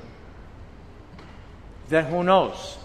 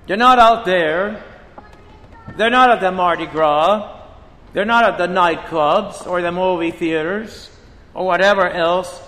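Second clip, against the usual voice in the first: forceful preaching; 4 dB louder than usual. Real, not acted. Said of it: "preaching emphasis".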